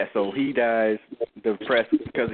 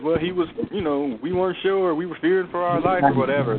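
mock excuse, pitched up; sarcastic; 6 semitones higher than usual. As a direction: mimic a lame excuse, sneering. Mocking the officers' excuse.

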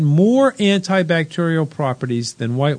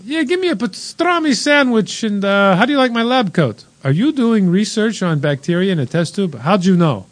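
a hammed-up Italian accent that drifts Scandinavian, higher at first; mock Italian accent; 4 semitones higher than usual. Co-host mocks lab-coat researchers, loosely Italian accent. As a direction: play a researcher ordering a pastrami sandwich in a loose Italian accent. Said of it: "I loved your Italian accent there".

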